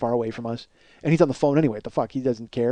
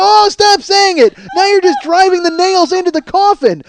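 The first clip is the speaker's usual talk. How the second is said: higher, slowed hammed-up begging her to stop; mock pained plea; 11 semitones higher, 5 dB louder than usual. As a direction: beg her to stop like it hurts.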